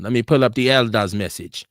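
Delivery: mock Jamaican accent. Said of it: "Was that a good Jamaican accent".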